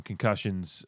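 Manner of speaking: slow words round a rising burp. Real, not acted. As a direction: talk through a held-back burp. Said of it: "I've got that burp".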